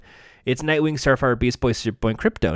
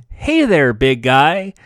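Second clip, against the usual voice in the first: cheery quip with a big smile; smiling; 4 dB louder, slower than usual. Acted. Nightwing quipping to a large henchman, smiling. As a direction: greet him through a huge grin. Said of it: "with a huge smile".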